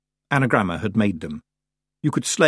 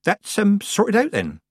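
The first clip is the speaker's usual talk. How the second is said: too loud; 11 semitones higher, slower than usual. A narrator's reading. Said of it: "more loudly than necessary".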